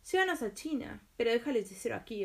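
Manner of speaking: a firm, quick order; commanding. Acted. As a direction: give the genie a command. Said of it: "ordenó Aladino".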